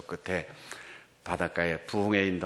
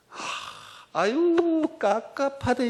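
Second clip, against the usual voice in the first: high, drawn-out exasperated sigh; mock groan of frustration, high and stretched out; much slower than usual. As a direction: act out being stifled with frustration, pitched way up. Mimics people exasperated at his slowness.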